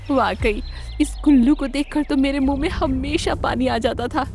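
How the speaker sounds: high-pitched, gleeful fox; delighted clever fox. Acted. Fox thanks crane for prey, high delighted fox voice. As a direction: gloat over a favourite meal in a high voice.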